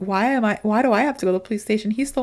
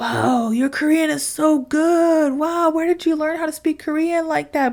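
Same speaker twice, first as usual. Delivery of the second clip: put-on tipsy old man voice, pitched up; 6 semitones higher than usual. Retelling an old man's amazed reply, imitating a drunk old man. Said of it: "this old man is already drunk".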